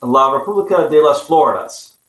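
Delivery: amateur attempt at Spanish; poor Spanish pronunciation. Shown as a demonstration. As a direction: have a go at Spanish with a non-native accent. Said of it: "not really good Spanish pronunciation".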